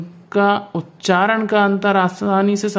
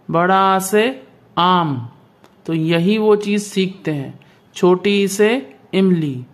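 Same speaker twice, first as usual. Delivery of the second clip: put-on children's class recital. Shown as a demonstration. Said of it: "इस तरह से छोटे बच्चों को पढ़ाया जाता है".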